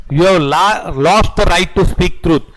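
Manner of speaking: very slow, word by word, for note-taking; slow dictation. Acted. Teacher dictating the estoppel definition to students, very slow. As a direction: spell it out so the class can write it down.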